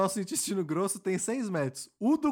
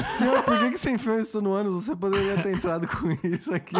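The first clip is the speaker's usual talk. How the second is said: laughing through a mock question; cracking up while playing a guard; 2 semitones higher than usual. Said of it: "se eles te perguntassem".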